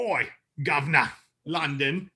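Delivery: mock Cockney. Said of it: "That was your best accent".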